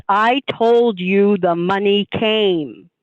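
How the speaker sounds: slow, firm and insistent, each word weighed; a lightly voiced stern mentor who will not repeat himself; intense.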